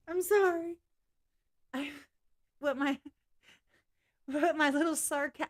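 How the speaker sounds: a light Cartman-style whine; hint of a bratty cartoon kid. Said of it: "The little Cartman voice".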